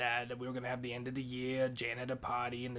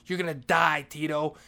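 loud, urgent alarm; alarmed warning; 2 semitones higher, 9 dB louder than usual. Retold or imitated. Janitor telling Tito about the bleach, loud alarmed warning. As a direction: punch out the warning loudly.

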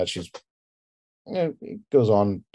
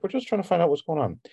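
softly reassuring, almost whispered in places; calming detective voice; calming demeanor; 7 semitones higher, 3 dB quieter than usual. Acted. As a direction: settle someone down gently. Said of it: "he's got a very calming demeanor to him".

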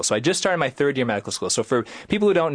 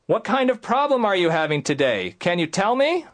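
coaxing; 8 semitones higher than usual. Retold or imitated. Student pleading with patient.

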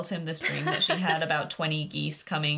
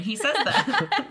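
slow, laughing disbelief; can't believe he said it; 8 semitones higher, 3 dB louder, slower than usual. Real, not acted. Reacting to Odysseus telling his wife to stop crying, laughing slowly.

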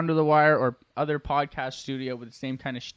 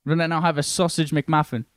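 put-on English accent. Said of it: "one more go in English".

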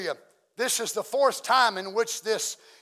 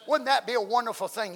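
emphatic repeat; 3 semitones higher than usual. Shown as a demonstration. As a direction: press it home to the congregation.

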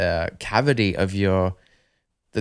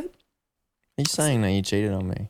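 mock accusation; 3 dB quieter, slower than usual. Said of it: "guys, jokes".

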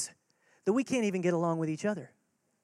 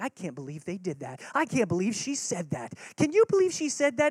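indignant gossip. Retold or imitated. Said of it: "you're like".

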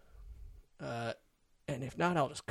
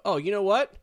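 macho bluster; 2 semitones higher, 4 dB louder than usual. Retold or imitated. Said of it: "we are taught in this machismo culture".

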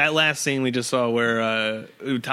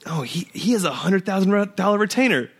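retold gossip; 5 semitones higher than usual. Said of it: "or he goes".

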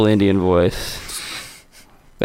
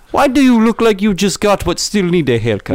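mocking taunt; 9 semitones higher than usual. Roast taunt voice.

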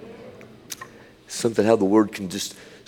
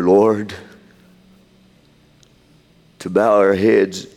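solemn public prayer. Real, not acted. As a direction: pray it out in short, weighted phrases. Leads congregation in prayer.

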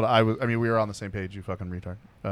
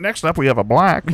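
auctioneer announcement; 5 dB louder than usual. Pretend. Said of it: "the funny auctioneer guy".

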